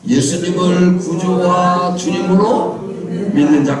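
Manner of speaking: measured, level chant with held phrase endings; led group recitation. Acted. Preacher has congregation recite who can worship, led recitation. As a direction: lead the room through each point in unison.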